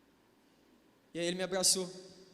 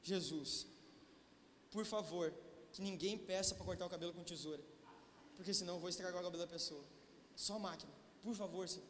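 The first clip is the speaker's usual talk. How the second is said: hushed prayer; 5 semitones lower, 11 dB quieter than usual. Retold or imitated. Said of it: "e orei".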